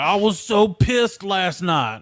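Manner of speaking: Australian quote. Retold or imitated. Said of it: "Or like".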